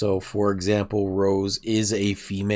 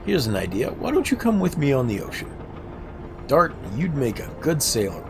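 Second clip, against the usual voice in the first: lightly voiced friendly sailor, pitched a bit up; an easygoing seaman inviting a friend aboard; game character voice; 4 semitones higher than usual. Streamer voicing the sailor inviting Dart to sea, light character voice.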